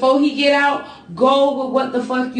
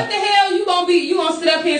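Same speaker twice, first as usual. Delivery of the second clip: outraged shout; 4 semitones higher, faster than usual. Real, not acted. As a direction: blurt it out in disbelief. Outraged at faithful claim.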